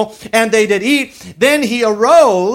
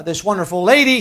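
sarcastic; 3 semitones lower than usual. Acted. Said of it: "I was just being sarcastic there about how wonderful she was".

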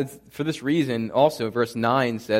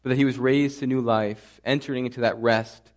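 steady, reverent prayer voice. Acted. Pastor leading the congregation in closing prayer, reverent and steady. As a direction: pray it sincerely to God.

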